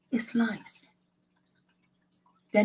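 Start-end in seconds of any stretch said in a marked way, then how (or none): 0.1-0.9 a hushed, ominous whisper; whispered punchline. Acted. Preacher whispering the devil's native tongue to the congregation. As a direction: breathe "is lies" out as a secret.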